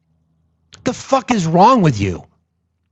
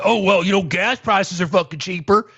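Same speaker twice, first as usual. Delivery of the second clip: a mild whiny mock of a gloating voter, higher at the end; mocking maga voice; 4 semitones higher than usual. Mocking maga voters gloating about gas prices, lightly whiny voice. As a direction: sneer it like a smug supporter. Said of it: "bitching and moaning about saying".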